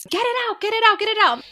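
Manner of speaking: high, urgent retold cry of pain; reliving the labor pain, high and pleading; desperate pleading.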